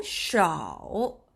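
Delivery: 샤오 stretched very long and slow; slow model syllable. Shown as a demonstration. Teacher drawing out 샤오 for live viewers. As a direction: hold 샤오 out so learners hear every sound. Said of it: "그냥 소우 아니고 시".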